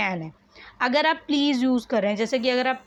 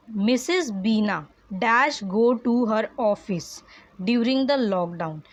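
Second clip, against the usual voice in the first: slow dictation reading; much slower than usual. Shown as a demonstration. Teacher reads exercise sentence.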